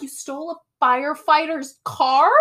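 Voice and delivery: high-pitched mock disbelief, rising; incredulous. Veronica learns whose car was taken, high incredulous question. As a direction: imitate a scandalized friend. Retold reaction to stolen car.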